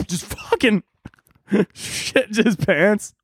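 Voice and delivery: talking through real laughter; can barely get the words out for laughing. Real, not acted. Cracking up at his own joke.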